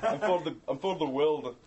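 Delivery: loud, high, hammed-up German accent slipping toward Irish; mock German accent. Populist pitching himself to the world, mock German accent. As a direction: shout a bad German accent through amusement. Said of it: "He was almost like an Irish there".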